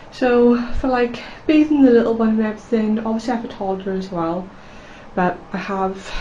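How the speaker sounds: out of breath from the stairs; breathless after climbing stairs; gasping between phrases. Real, not acted. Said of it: "so I'm out of breath, I've just come up the stairs".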